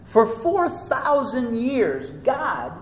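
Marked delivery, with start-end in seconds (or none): none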